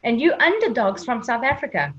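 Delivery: lightly imitated Italian journalist's accent; a hint of Italian accent, goading questioner; thick Italian accent. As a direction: retell it with a touch of Italian accent. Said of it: "he had a thick Italian accent".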